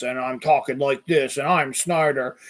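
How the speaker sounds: lightly mocked tough guy voice; a hint of put-on toughness; Snyder. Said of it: "he's got this tough guy voice".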